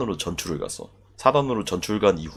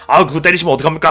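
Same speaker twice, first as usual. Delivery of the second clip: pleading soldier; 7 semitones higher, 8 dB louder, faster than usual. Retold or imitated. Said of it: "막 이러면서 막 말려".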